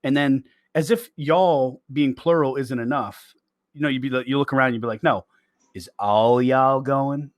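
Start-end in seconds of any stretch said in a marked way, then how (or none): 5.0-7.3 slow Southern drawl; Southern accent. Acted. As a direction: draw out "all y'all" like a Southerner. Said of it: "when I'm around my Southern friends".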